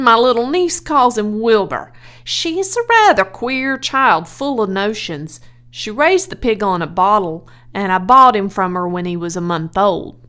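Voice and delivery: the farmer telling the minister about Wilbur; proud farmer. Acted.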